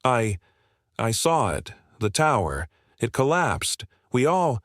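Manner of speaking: shaky, breaking voice; voice cracking. Acted. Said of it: "Her voice cracks".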